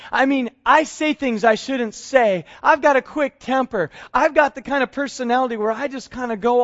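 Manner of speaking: fervent pleading; impassioned protest. Acted. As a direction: argue your unworthiness. Peter protests loudly.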